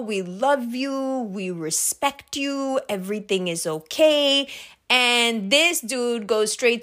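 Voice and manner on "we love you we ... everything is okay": slow, soft, soothing imitation of dad; drawn-out, delicate mock reassurance; placating dad. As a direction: mimic a dad gently smoothing things over. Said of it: "my dad's doing his whole".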